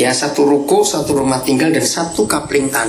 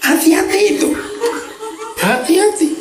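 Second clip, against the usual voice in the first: mock warning. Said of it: "warning the congregation playfully".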